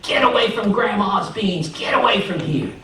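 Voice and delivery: high-pitched yell at pesky birds; urgent storybook yelling; neighbors yelling. Acted. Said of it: "some neighbors were yelling".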